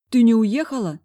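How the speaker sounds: lightly acted talking with mouth full; mumbling mouth full. A narrator's reading. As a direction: ask in surprise as if chewing. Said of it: "пробухтела я набитым ртом".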